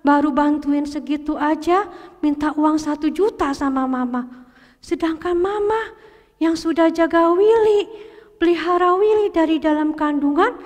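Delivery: lightly voiced boy thinking to himself, remorseful; Willy's inner voice. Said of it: "di hatinya". (suara batin Willy yang menyesal)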